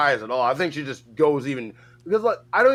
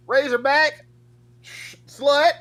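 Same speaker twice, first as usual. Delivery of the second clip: much higher, squeaky pull-string doll voice; talking doll catchphrases; 10 semitones higher, 3 dB louder, much slower than usual. Retold or imitated. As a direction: chirp it like a cheap talking toy. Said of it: "she just says her catchphrases".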